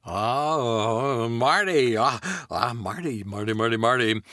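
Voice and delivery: halting, stammering Jeff Goldblum Doc Brown; a stuttering, excited scientist in Goldblum style. Acted. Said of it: "Doc Brown ... Jeff Goldblum".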